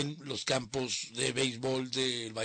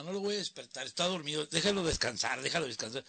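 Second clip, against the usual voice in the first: lightly higher mother insisting; compadre's mother; 5 semitones higher than usual. Retold or imitated. Mother insisting the caller let her son rest, lightly voiced. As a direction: keep the son's sleep safe, a hint of her voice. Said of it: "decía la mamá".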